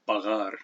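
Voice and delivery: pagar with a light fricative G; soft throaty gh in pagar; Spanish soft G. Shown as a demonstration. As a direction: say pagar the Spanish way, G not fully closed. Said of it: "If you know Spanish".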